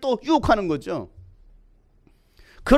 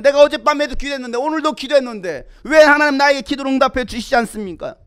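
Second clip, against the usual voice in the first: tag; 5 dB louder than usual. Acted. Voicing a discouraged believer's complaint.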